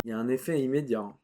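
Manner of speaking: talking through a sticky mouthful; words round a sticky bite; chewing sticky toffee. Real, not acted. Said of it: "ça colle aux dents".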